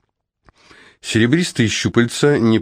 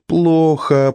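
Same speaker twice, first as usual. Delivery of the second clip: high chirped "Плохо"; chirping; 9 semitones higher than usual. A narrator's reading. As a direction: chirp it like a little bird. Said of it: "продолжала чирикать".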